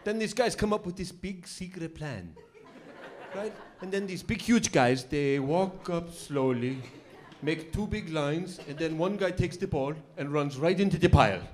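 lightly voiced foreign cabbie, slow and deliberate; imitated cabbie drawing out each step; Bana. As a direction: explain slowly as a puzzled newcomer. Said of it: "he starts to explain American football".

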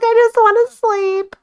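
high, whiny sleepy complaint. Pretend. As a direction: whine like you're exhausted. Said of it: "She's like".

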